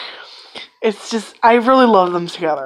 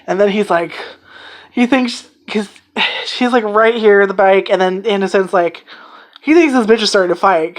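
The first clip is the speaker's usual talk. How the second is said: ordinary talk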